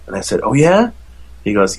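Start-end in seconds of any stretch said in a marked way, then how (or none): 0.4-0.9 retold surprise. Dad reacts to son's guess.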